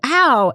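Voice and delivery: playful imitation of a pained cry; retold yelp. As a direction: act out a quick yelp from a nip. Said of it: "She nips me and I go".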